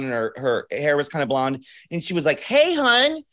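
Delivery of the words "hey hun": high-pitched Baltimore greeting; sing-out Baltimore hello, much higher; Baltimore accent. Retold or imitated. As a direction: imitate a Baltimore gal, voice pitched way up. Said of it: "Total Baltimore accent".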